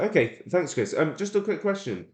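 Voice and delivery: casual sales caller, starting high and easing down; cold-call voice. Shown as a demonstration. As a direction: ask lightly, like a quick phone query. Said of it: "I'm gonna speak exactly how I would on a cold call".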